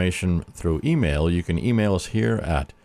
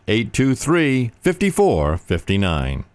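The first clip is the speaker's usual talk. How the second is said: slow repeat; 4 semitones higher, much slower than usual. Acted. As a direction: settle the number slowly. Number repeated.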